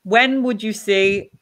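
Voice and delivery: slow, drawn-out wormy voice; worm impression. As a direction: stretch it out like a worm. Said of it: "That's my worm impression".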